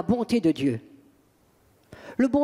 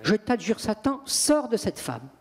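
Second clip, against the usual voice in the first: firm calm command. Shown as a demonstration. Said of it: "On ne crie pas".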